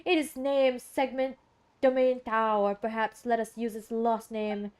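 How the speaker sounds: lightly put-on formal oracle, measured; solemn watcher. Watcher naming the seat above the skies, mildly solemn voice. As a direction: pronounce it with a touch of mystery. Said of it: "why I'm talking like that".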